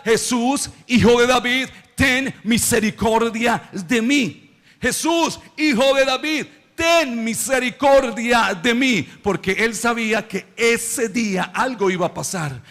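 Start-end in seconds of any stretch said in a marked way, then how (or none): 0.0-9.0 mild preacher's version of a blind man's cry; imitated crying out. Blind Bartimeo calling to Jesus for mercy, mildly acted cry. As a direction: call out for mercy, slowing on the plea. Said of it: "empezó a gritar".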